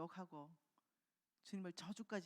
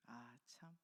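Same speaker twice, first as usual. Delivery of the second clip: breathy whispered lament; a soft whispered sigh of dismay; whispered aside of regret; 6 semitones lower, 11 dB quieter, much slower than usual. Real, not acted. Sighing aside over the denial.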